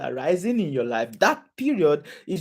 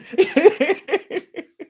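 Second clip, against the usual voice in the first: loud, high burst of real laughter; 12 semitones higher, 7 dB louder than usual. Real, not acted. Preacher amused by praying for problems, high loud laugh.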